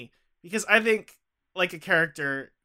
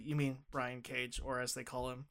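soft, low, calm retold correction; 5 semitones lower, 16 dB quieter than usual. Retelling someone correcting his wrestler-name slip, very calmly. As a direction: quote a gentle correction, much quieter and lower. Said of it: "said to me very calmly".

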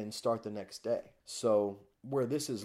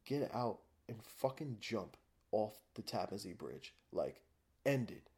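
quiet, hopeless voice telling himself to jump; softer, despairing self-talk; despairing inner voice; 7 dB quieter than usual. Retold or imitated. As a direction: murmur it like giving up. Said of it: "I'm like".

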